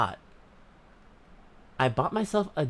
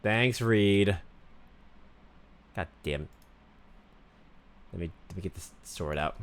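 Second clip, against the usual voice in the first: put-on Valley Girl voice. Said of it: "ten minutes of Valley Girl".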